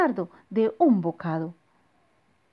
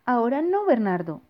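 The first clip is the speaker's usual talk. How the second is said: dismissive parent; 4 semitones higher, 4 dB louder than usual. Acted. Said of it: "dijo su mamá".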